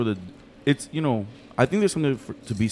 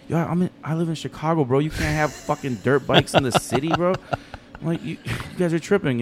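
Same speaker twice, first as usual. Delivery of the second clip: mock protest; 7 semitones higher than usual. His retort to cousins.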